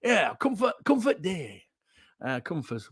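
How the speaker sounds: lightly put-on West Yorkshire accent; a touch of broad West Yorkshire. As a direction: imitate West Yorkshire day-trippers. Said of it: "people from West Yorkshire".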